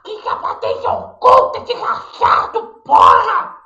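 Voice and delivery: ordinary delivery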